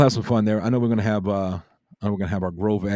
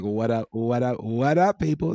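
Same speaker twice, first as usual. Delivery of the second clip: chat greeting read aloud; 4 semitones higher than usual. Retold or imitated. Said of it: "I just imagine that's how you were saying".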